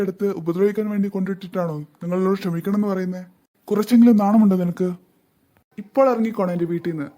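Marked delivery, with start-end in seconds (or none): 3.7-7.1 louder furious scolding; angry rebuke. Acted. Father scolds the stepmother for abandoning children, angrily louder. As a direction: shame her to her face.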